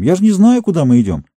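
mildly exasperated protest; exasperated answer. A narrator's reading. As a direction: blurt it out, at a loss. Sam answering, at a loss.

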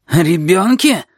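high incredulous echo of the word; astonished. A narrator's reading. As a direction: repeat it back as a stunned question. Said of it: "Изумлённая душенька едва не выронила". (изумлённое переспрашивание)

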